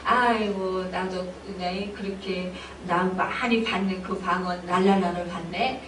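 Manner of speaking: low, softened mock grumble; mild disappointment. Believer let down by common tongues, mildly disappointed. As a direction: sigh it out, a little let down. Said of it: "서운해하는 사람도 있어요".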